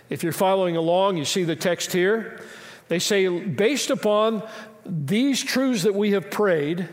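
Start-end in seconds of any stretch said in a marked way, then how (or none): 3.3-6.9 slow, deliberate scripture reading. Shown as a demonstration. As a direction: lay each word down slowly. Reading the prayer slowly.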